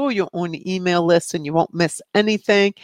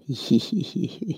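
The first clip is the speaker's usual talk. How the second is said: soft giggle; 6 dB quieter than usual. Real, not acted. Giggles at cheeky viewer comment.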